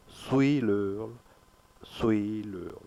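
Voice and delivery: "suis" stressed, "leul" falling away; teacher's demo, weight on "suis". Shown as a demonstration. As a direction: slowly stress the first syllable, "suis". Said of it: "We stress on suis".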